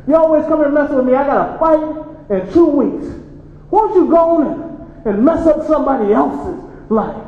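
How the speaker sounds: fed-up son. Acted. Son angrily shoos drunk father.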